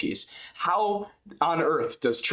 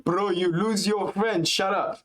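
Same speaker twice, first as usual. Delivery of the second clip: imitating Makhachev; 5 semitones higher than usual. Echoing Makhachev laughing.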